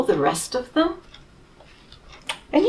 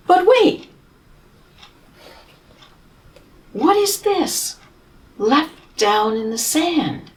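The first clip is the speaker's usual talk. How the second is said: mock surprise; 8 semitones higher, slower than usual. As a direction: gasp at a discovery for the children. Teacher builds suspense over picture.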